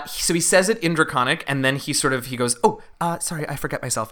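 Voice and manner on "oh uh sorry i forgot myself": lightly voiced flustered kobold; apologetic kobold. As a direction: catch yourself with a small apology. Kobold correcting himself, acted.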